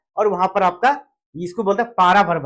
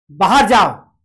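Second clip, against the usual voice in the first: बाहर जाओ barked louder as a scolding; 6 dB louder, much slower than usual. Shown as a demonstration. Teacher scolds a student out, louder and angry. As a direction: snap बाहर जाओ at someone you dislike. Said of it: "हम उसको डांट रहे हैं".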